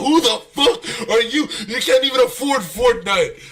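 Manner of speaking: put-on snapping at a cheeky kid; angry rant. Uncle yelling at nephew over his text, mock furious. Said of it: "I was like".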